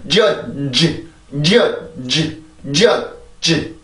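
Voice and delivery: 지 with a long, voiced full-syllable ending; drawn-out ending. Shown as a demonstration. Teacher shows learners the overlong ending, drawn-out 지. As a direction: stretch the end of 지 too long. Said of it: "이렇게 하면 소리가 너무 길어지게".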